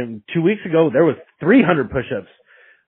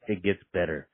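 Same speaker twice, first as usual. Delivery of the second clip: It gets better, much lower and softer, almost whispered; soft near-whisper; 7 semitones lower, 11 dB quieter than usual. Retold or imitated. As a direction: murmur it gently. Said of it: "and he goes".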